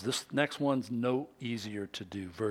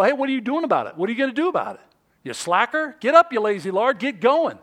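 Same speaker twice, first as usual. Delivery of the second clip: loud, raised-pitch hectoring; imitated nagging; 8 semitones higher, 8 dB louder, faster than usual. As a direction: badger a slacker into action. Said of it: "it doesn't help when people go".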